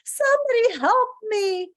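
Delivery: high, loud pleading scream; shrill-pitched, loud plea for mercy; terrified scream. Acted. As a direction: scream in panic as the prey. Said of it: "Wendell screamed".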